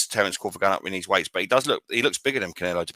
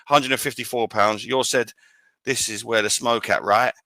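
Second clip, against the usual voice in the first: lightly put-on American accent; slower than usual. Boxing podcaster reading out a fighter's announcement, mild American accent. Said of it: "so this is my American accent".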